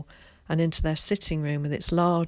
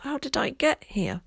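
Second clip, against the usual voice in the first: weak whispered question; stammering whisper; 8 semitones higher than usual. A narrator's reading. Sleepy boy asking Tom, stammering whisper. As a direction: barely get the words out. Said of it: "stammered Will".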